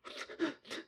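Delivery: high, soft mock sobbing; breathy, squeaky pretend bawling; imitated ugly crying. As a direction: fake an ugly-cry sob. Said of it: "Like, ugly crying".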